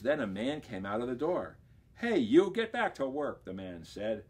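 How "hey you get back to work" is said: loud, higher foreman shouting; gruff order. Acted. Foreman yelling at the bear to get back to work, loud. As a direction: call him back to work.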